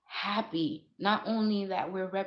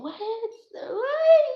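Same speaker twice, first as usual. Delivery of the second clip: shout; 9 dB louder than usual. Real, not acted. Outraged outburst.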